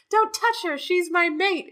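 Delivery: high mock possessive growl of a mate; mocking Farley. Friend mocking Farley's jealous claim. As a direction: lightly mimic a jealous mate. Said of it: "He's acting like Farley".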